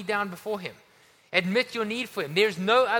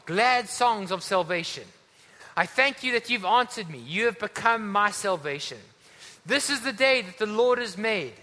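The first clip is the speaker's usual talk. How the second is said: raised, emphatic psalm reading; scripture declamation; 2 semitones higher, 3 dB louder than usual. Acted. Preacher reads Psalm a hundred eighteen to the congregation, declaimed.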